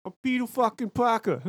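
mild New York Spider-Man. Acted. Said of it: "a thick New Yorker accent".

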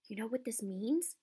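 out of breath after sprinting; breathless, urgent question. Acted. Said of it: "he finished breathlessly".

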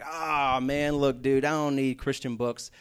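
a mild, imitating hint of condescension; lightly hammed-up know-it-all Christian brushing off books; mock condescending. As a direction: talk down a little, like you know better. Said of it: "they say it in a slightly condescending voice".

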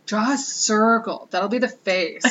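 slow, weary little boss handing out orders; a touch of an impatient kid sighing at a grown-up; bossy daughter. Retold or imitated. Retelling the daughter bossing her around, lightly imitating a slow weary bossy child. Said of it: "sighed deeply".

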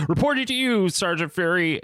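high-pitched mock military report; saluting subordinate. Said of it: "he salutes Nick Fury".

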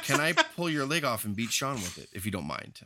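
deferential, sinking in pitch and volume; humble request. Acted. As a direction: ask meekly, fading to very soft. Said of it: "come in humbly and be like".

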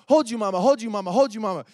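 put-on loud pleading child voice, repeating; imitating a scared toddler calling hold you. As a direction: beg like a frightened little girl. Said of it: "run to me".

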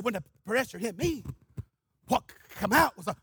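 lightly imitated stammer; Brother Buddy's stutter. Stuttering evangelist turns to his own response, light stammer. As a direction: catch briefly on a first sound. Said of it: "He just stuttered".

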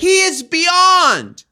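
high, loud, slow rave; gushing. Real, not acted. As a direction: squeal it out in awe. Gushing praise.

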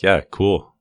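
mildly sarcastic retort, lifted at the start. Retold or imitated. Son answering his gloating dad, mildly sarcastic. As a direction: imitate a lightly mocking comeback. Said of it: "I love his sarcasm too".

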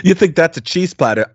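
a lightly voiced Crocodile Dundee mocking a rival, Australian accent; playful mock Aussie bravado in a light Australian accent; Crocodile Dundee impression. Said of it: "Crocodile Dundee for Dundee in Canada".

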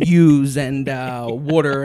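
exaggerated Philly accent on yous and water. Shown as a demonstration. Joking about lost hometown words, heavy Philly accent. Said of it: "'cause I'm not, like, saying".

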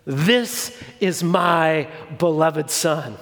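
a hint of a deep, slow voice from heaven; slow and weighty, lightly voiced as God; lightly voiced booming God; booming divine voice. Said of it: "in this booming, terrifying voice".

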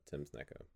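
Tim Snickaw, Hawkinsmith said in reverse; backwards speech. Shown as a demonstration. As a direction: reverse the name sound by sound. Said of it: "and I'll say it backwards".

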